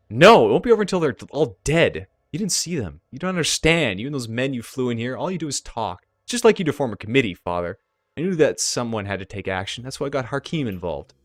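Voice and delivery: lightly voiced daughter in an argument; upset daughter. Daughter accuses her father of doing nothing, mildly heated reproach. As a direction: open with a loud protest, then settle into reproach.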